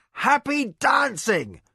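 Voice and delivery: high, slow giddy delirium; giddy from blood loss; delirious. A narrator's reading. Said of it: "turned drunken with blood loss".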